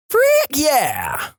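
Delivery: very high-pitched yell; yelling girl. Acted. Vodka girl trades yells with classmate, yelling. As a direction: yell it high, trading shouts. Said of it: "back and forth yelling".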